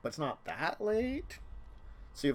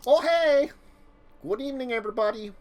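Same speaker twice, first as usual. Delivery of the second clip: cheery visitor voice; 7 semitones higher, 5 dB louder than usual. Acted. GM plays Ryan at door.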